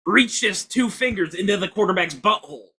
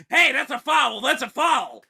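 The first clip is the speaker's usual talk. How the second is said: mock yelling; 4 semitones higher, slower than usual. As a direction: imitate a yelled foul call, lightly. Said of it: "and he was yelling".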